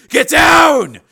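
high, explosive warning yell; urgent shout. A narrator's reading. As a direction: scream the order to take cover. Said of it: "shouted Steele".

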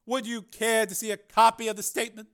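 high, loud, commanding senator; Carmen, senator's voice. Acted. Senator announcing the engineer's name to the committee, commanding. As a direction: announce it with cold authority.

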